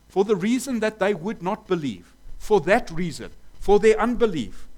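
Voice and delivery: rising preacher's emphasis; emphatic preaching. Real, not acted. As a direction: drive the point home harder each time. Preacher hammering home the point.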